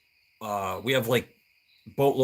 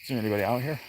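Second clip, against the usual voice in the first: ghost hunter calling; 4 semitones higher, 10 dB quieter, much faster than usual. Pretend. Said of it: "pretend I'm on a ghost hunt".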